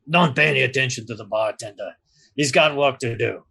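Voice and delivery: put-on brisk light Severosi accent, dismissive. Doorman steering the crew past the bartender, light Severosi accent. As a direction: wave it off in a hint of Severosi accent. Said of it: "thick Severosi accent".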